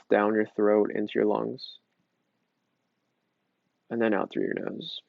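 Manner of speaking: calm meditation guide; guided breathing. Acted. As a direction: talk them gently through each breath.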